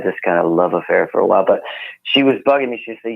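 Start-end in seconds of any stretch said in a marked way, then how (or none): none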